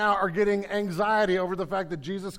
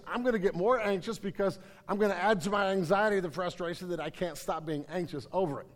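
normal talking voice

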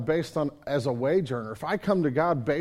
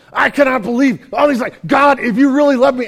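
much higher and louder exasperated complaint at God; frustrated outburst; 8 semitones higher, 13 dB louder than usual. Retold or imitated. Pastor stuck at red lights, loudly venting at God. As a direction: vent at God from the driver's seat. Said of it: "I'm sitting in the car going".

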